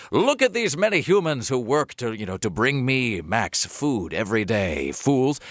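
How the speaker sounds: a pompous dog surveying his land; smug dog voice. Retold or imitated. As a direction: lord it over the yard like a smug dog. Dog Max voiced, lordly.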